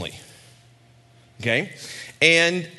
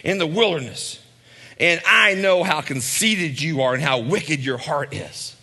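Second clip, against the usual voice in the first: condescending accusation. Retold or imitated. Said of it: "just hear how loaded those sentences are".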